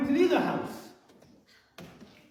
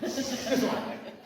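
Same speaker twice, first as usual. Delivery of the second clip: slow, softer Tommy Cooper impression with a laugh; Tommy Cooper catchphrase; 4 dB quieter, slower than usual. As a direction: drag out the catchphrase, chuckling. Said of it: "I'm gonna do it like Tommy Cooper".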